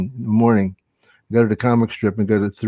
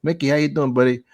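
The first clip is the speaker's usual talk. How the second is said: higher-pitched mock heckle, retold; wise ass; 3 semitones higher than usual. Valet teasing a ballet dancer at the River Cafe, wise-ass. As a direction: imitate your own smart-aleck needling. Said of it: "I was such a wise ass".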